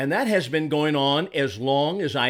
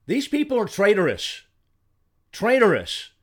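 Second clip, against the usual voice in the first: indignant denunciation; 6 semitones higher than usual. Real, not acted. Denouncing politicians as traitors.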